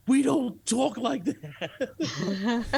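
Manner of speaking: very slow, high, drawn-out scolding; slow stern rebuke. Retold or imitated. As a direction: stretch every word like a prim lady correcting him. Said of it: "this lady stops and goes".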